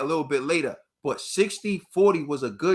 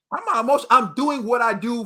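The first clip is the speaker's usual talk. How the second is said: insistent; 5 semitones higher, 4 dB louder than usual. Real, not acted. Denying being emotional.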